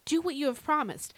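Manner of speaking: fervent, pleading prayer; earnest petition with lifted, emphatic phrases; excited prayer. Shown as a demonstration. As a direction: pray it urgently, straight to God. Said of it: "just exactly like that".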